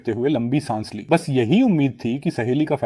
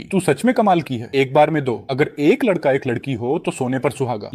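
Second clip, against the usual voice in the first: praising. Acted. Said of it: "लिन जीशिया ने तारीफ की".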